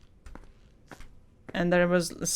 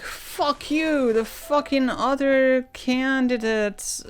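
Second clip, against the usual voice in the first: imitating a rude politician; 2 semitones higher than usual. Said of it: "He was saying so many profanities".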